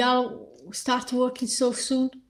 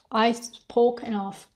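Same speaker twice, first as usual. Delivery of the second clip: losing voice; 4 dB quieter, slower than usual. Real, not acted. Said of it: "I'm losing my voice".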